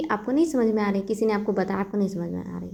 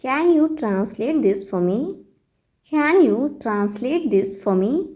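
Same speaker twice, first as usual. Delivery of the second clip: very slow, teacherly model phrase; slow model sentence; much slower than usual. Shown as a demonstration. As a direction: spell it out slowly for learners. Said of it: "आप कहिए". (बहुत धीमे, सिखाने वाले अंदाज़ में)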